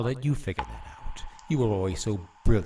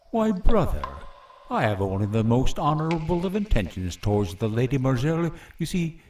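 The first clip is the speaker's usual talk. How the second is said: mocking sweetness; 2 semitones higher than usual. Villain taunts his brother.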